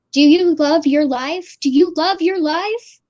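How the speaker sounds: slow, lilting mock threat to husband; drawn-out teasing question; adorable TikTok wife. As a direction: lightly imitate an adorable wife, rising at the end. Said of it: "her very adorable Asian accent".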